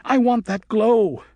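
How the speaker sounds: put-on girl bat shouting while attacking him. A narrator's reading. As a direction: spit it out in envy. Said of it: "she was shouting".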